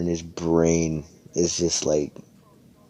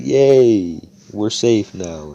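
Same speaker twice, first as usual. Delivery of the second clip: excited cheer; 4 semitones higher, 6 dB louder, slower than usual. Acted. Villagers celebrating being saved.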